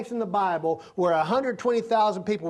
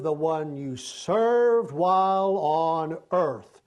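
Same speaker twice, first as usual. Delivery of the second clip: slow, solemn judge's pronouncement; the Lord pronouncing judgment on the relatives; the Lord judging; slower than usual. Acted. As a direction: read out the verdict from the record books.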